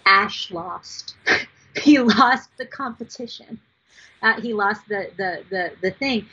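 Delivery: tearful little-kid wail, retold; imitated child sobbing. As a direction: imitate a small girl crying over a loss. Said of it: "hears his daughter sobbing uncontrollably".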